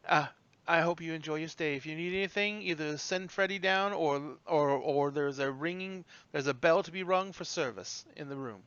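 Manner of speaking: a hint of a gracious innkeeper; polite hostess. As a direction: offer help softly and politely. Hostess wishes guests good stay.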